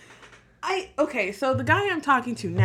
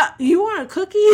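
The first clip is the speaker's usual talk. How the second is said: mock flustered; 6 semitones higher, 3 dB louder, faster than usual. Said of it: "I don't know how to deal".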